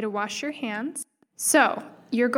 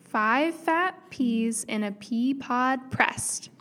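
rhyme recitation; much slower than usual. Shown as a demonstration. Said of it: "It goes like this".

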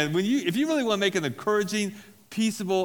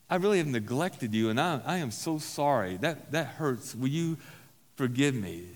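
humble apology. Shown as a demonstration. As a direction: apologize gently and honestly. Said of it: "There's something so healing when you say".

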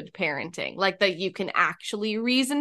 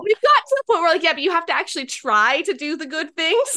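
laughing; 8 semitones higher, 5 dB louder than usual. Real, not acted. Laughing while telling story.

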